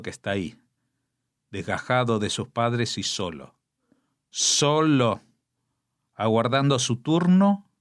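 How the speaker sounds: solemn poetry reading with long pauses; poem recital. Acted. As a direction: read it like a grave elegy. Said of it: "déjenme que lo lea". (recitado solemne de poema)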